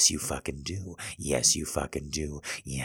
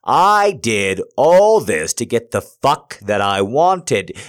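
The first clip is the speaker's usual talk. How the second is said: yelling; 5 semitones higher, 14 dB louder than usual. Acted. Yelling at partner.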